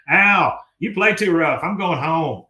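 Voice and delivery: whiny Dale. Retold or imitated. Dale whining after headbutt.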